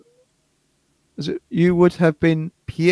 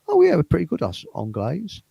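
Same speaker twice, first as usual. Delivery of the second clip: mock posh southern English voice. Playing the stereotype foreigners see, mock posh southern voice. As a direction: lightly put on a posh southern accent. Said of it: "the posh southern voice".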